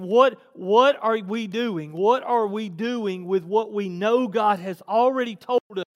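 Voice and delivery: weighty, insistent sermon questions; emphatic preaching. Acted. Preacher challenging the church about God's commands, emphatic preaching. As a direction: press the congregation for an answer.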